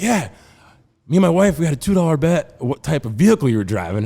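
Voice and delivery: Florida redneck. Acted. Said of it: "what a true Florida redneck sounds like".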